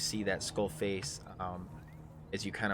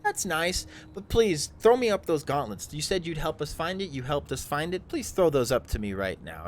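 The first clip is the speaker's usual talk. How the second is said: insistent drow; 6 semitones higher, 5 dB louder than usual. Acted. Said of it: "he looks to you and he goes".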